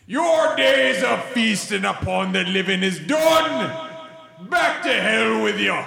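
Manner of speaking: shouted in-character banishment; righteous vampire hunter. Acted. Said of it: "and say to these dang, dirty, blood-drinking swine".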